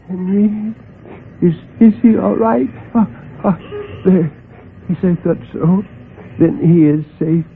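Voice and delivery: put-on high, urgent worried voice of an injured old man; dying old man. A narrator's reading. Old man hit by a truck asks for Henry, anxious. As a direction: gasp it out from the asphalt, anxious.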